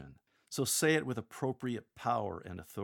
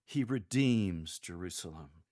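tender intimacy. Shown as a demonstration. Lector consoling the downhearted, tender and intimate. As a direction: comfort them tenderly. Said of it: "shift our tone to tender intimacy".

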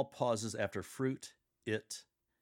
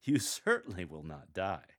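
a chuckle on "You", then the rest mocking; chuckling; 3 semitones lower than usual. Shown as a demonstration. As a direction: laugh the threat away. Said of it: "chuckle when you say".

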